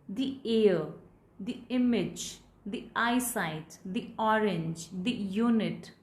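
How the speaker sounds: each the said thee, slow and careful. Shown as a demonstration. Teacher listing vowel-sound examples, slow thee. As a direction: say the with an ee before air, image, eyesight, orange, unit. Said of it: "the is pronounced as the".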